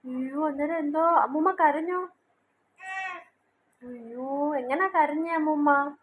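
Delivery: put-on sing-song questions to a babbling baby; baby talk. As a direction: coo along as if following a baby's story.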